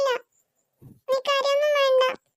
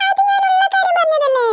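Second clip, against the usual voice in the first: teasing laugh; 6 semitones higher, 5 dB louder than usual. Acted. Boy laughs while teasing.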